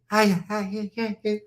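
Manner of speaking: put-on garbled babble; imitated speaking in tongues. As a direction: mimic her string of nonsense syllables. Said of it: "She was speaking in tongues".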